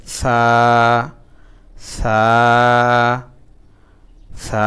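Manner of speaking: সা with tongue tip on the teeth, soft and even; teacher showing the soft Arabic tha. Shown as a demonstration. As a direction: breathe সা out gently between the teeth. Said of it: "উচ্চারণটা খুব নরম হবে".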